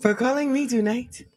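deliberate Wakanda accent with pauses; Wakandan accent. Shown as a demonstration. Thanking a caller sir, Wakandan accent. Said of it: "I could do Wakanda".

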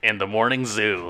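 loud goofy morning zoo DJ; silly clown. Pretend. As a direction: ham it up like a wacky radio host. Mock morning zoo radio bit.

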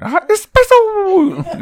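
slow high shouted squeal; overacted cartoon hype yell; hyped-up anime voice. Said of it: "If you're saying it like that".

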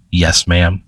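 low demon's obedient reply; low growl. Acted. Bar Dog obeys the woman, low growl. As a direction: drop it low, almost a growl. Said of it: "a very low growl almost".

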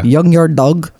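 put-on "Young yard dog" with Y replacing J; imitated Spanish-speaker's "Young yard dog"; mispronounced junkyard. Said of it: "she couldn't say J's".

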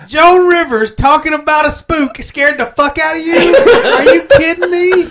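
incredulous Joan Rivers scoff with a laugh; Joan Rivers impression. Teasing his partner in a mock Joan Rivers voice. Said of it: "a pretty good Joan Rivers impression".

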